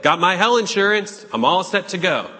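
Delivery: mock a careless, smug Christian; smug believer. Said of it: "and say".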